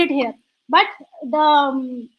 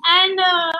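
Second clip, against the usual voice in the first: tearful; 2 semitones higher than usual. Real, not acted. Tearful thanks to mentors.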